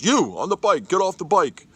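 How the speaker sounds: officer yelling at the cyclist to get off the bike, aggressive; aggressive command. Retold or imitated. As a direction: bark it like an angry officer ordering a cyclist. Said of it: "aggressively goes".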